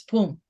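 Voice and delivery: punchy spoken boom; a quick loud boom like a release; sudden little boom; sharp boom. Shown as a demonstration. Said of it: "it's a quick release".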